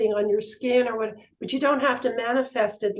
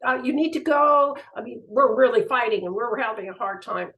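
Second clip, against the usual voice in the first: put-on higher, panicked voice of a young man caught out; flustered young man; 6 semitones higher, 3 dB louder than usual. Young man with a knife startled by the nun, panicked. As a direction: blurt it out in alarm. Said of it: "And he went".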